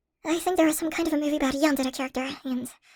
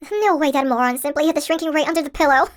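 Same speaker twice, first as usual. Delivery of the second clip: louder, scornful disbelief; exasperated outburst; 6 dB louder than usual. Acted. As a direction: vent at the idiot who hid it. Scolding the absent kidnapper.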